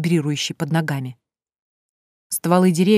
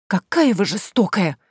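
put-on reproachful girl; 3 semitones higher, slower than usual. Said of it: "не выдержала Василиса".

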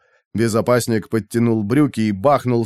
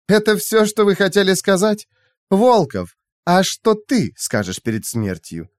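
high-pitched mocking female villain; high voice, slowing into the final question; taunting AI; 9 semitones higher than usual. A narrator's reading. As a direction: toy with them in a high, cool voice. AI taunts captives before death.

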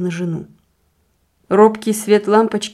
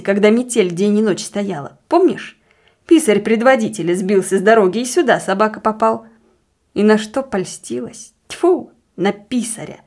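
agitated scolding with spat-out disgust; jealous deacon, scornful. Acted. Deacon reviling the clerk his wife fancied, scornfully.

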